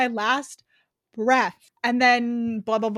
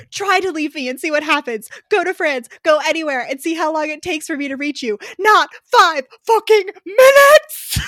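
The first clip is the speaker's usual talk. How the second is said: higher and louder, building to a yell; possessive hero shouting; 5 semitones higher, 10 dB louder than usual. Acted. Hero warning the heroine not to leave, shouting. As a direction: threaten her with mounting fury. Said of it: "I said".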